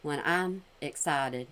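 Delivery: slow, low, mocking imitation of her sluggish speech; mocking slow talk. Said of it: "Because you're talking like this".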